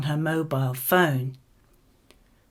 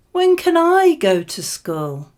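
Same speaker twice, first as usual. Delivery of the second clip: put-on high, louder little-kid plea; eager child asking; 10 semitones higher, 5 dB louder than usual. Young child pestering her parents about starting school, eager and pleading. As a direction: ask it like an impatient four-year-old.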